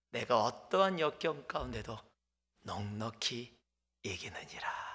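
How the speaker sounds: fading to a whisper. Real, not acted. Preacher hushes the verse.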